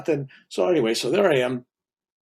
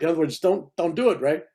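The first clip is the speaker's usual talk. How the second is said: higher, pressing guru's plea; guru urging; 5 semitones higher, 3 dB louder than usual. Retold or imitated. Guru urging Bill to stay alive, higher and pressing. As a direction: urge him to hold on. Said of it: "He goes".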